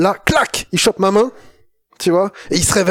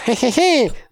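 mad scientist cackle; 7 semitones higher than usual. Acted. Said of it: "je te fais une imitation de savant fou".

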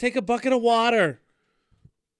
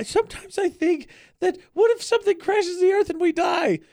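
excited rant; 10 semitones higher than usual. Real, not acted. Excited rant about doom.

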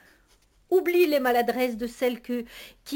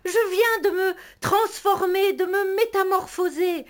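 higher, exalted proclamation; ecstatic; 5 semitones higher than usual. Acted. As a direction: declaim like a poet. Lyrical transformation speech.

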